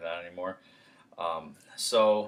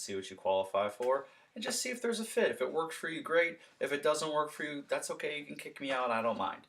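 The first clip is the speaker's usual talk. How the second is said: higher, light no-pressure pitch; easygoing salesman response; 3 semitones higher than usual. Shown as a demonstration. Salesman reassuring hesitant homeowner, light and easy. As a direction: keep it breezy and unpushy. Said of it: "here's your response".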